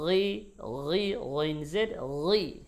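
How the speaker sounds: গি said as a soft, thin gi; the wrong light গি sound. Shown as a demonstration. Teacher showing students the wrong soft গি. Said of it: "গি বলা যাবে না".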